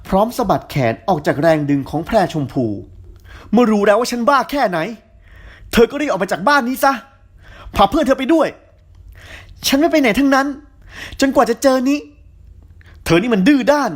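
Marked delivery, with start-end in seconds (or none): 3.5-13.9 shouting quarrel. A narrator's reading. Tin orders her out, shouting.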